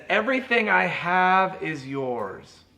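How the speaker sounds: slow, gentle father's promise; father reassuring his angry son, slowly; slow reassurance. Retold or imitated. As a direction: spell it out slowly and kindly.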